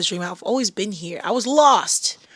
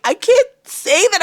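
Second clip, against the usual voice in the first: high, louder playful voice; high mock protest; 12 semitones higher, 5 dB louder than usual. Joking back to a TikTok commenter, high. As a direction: squeak it out in mock alarm. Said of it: "and I was like".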